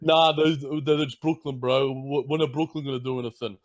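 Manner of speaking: lightly voiced dismissive sports bro; mock hot-take bro. Hot-take fan writing off Brooklyn, lightly mocked. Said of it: "those Barstool bastards".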